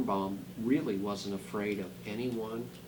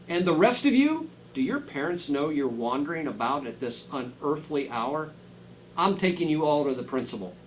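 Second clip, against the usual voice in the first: scolding teacher; 2 semitones higher, 4 dB louder than usual. Acted. Giant teacher scolds children.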